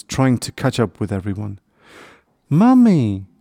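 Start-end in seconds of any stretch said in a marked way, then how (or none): 2.5-3.3 high, loud call with a falling end; crying out. A narrator's reading. Lost little hedgehog calls to his mum, crying out. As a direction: cry out for mummy, high and loud. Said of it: "he cried".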